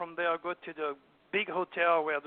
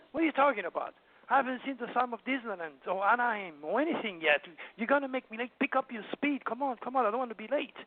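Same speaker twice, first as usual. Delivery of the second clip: higher-pitched impatient nagging, mildly acted; retold scolding; 5 semitones higher, faster than usual. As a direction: imitate an exasperated wife hurrying the driver. Retells wife scolding him while driving.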